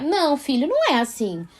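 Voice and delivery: um "não" gentil, levemente encenado; correção empática. Shown as a demonstration. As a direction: corrija o filho com empatia, sem força. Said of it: "uma entonação muito empática". (entonação empática de mãe corrigindo)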